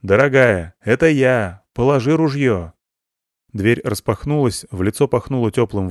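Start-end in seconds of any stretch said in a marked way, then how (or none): 0.0-2.7 loud call through the door. Acted. Ivan to his wife through the door, calling. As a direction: call out so she doesn't shoot. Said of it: "закричал".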